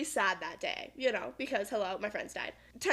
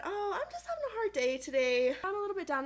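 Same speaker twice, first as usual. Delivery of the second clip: imitating herself; 8 semitones higher than usual. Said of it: "And I just said".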